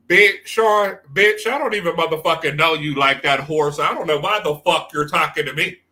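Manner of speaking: loud, furious read-out on Sean; aggressive cussing demo. Shown as a demonstration. Showing a viewer how to cuss out Sean, loud and angry. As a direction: cuss him out hard, full force. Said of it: "That's how you gotta give it".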